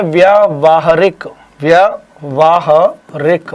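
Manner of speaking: व्यावहारिक stretched out very slowly; slow model word. Shown as a demonstration. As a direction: spell out व्यावहारिक slowly for the class. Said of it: "ये क्या होता है?".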